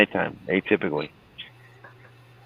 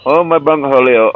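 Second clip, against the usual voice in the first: high, louder whiny "Oh, my bunghole"; mock Beavis cry; 6 semitones higher, 6 dB louder than usual. Man in pain from milk, high louder mock whine. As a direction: wail it like a cartoon teen.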